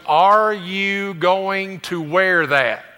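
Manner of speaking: slow, drawn-out pointed question; wife's loaded question. Acted. Lady coming up to her husband about his outfit, slow loaded question. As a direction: ask it slowly, as a veiled order. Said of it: "a lady comes up to you and goes".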